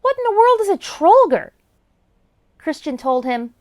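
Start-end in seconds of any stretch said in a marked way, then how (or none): 0.0-1.5 high impish leprechaun voice. Acted. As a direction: voice a teasing little leprechaun. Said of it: "The leprechaun laughed and asked".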